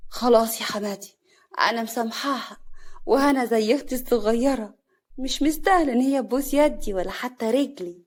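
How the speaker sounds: mock-gracious, sly forgiveness. Sister-in-law pretending to forgive Hana, slyly. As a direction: feign sweetness with hidden malice. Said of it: "كريمة بخبث".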